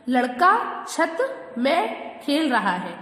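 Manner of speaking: slow, deliberate read-aloud; teacher reading the sentence slowly to pupils; slow reading of the wrong sentence. Shown as a demonstration. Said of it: "छत, छत में नहीं".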